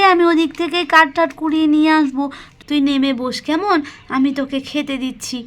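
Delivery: a hint of a caring mother hiding tears; lightly voiced gentle mother. Mala, to her daughter Pakhi, tenderly hiding her tears. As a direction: soothe the child, brush off the crying.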